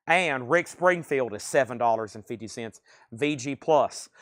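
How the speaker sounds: winded, short of breath; talking while out of breath. Real, not acted. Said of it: "I'm already out of breath".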